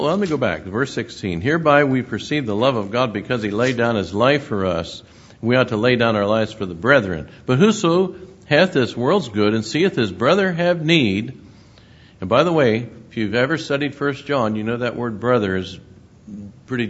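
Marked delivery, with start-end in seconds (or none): 1.4-11.4 louder, measured King James reading; scripture reading. Acted. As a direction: proclaim the verses to the congregation. Reads scripture aloud.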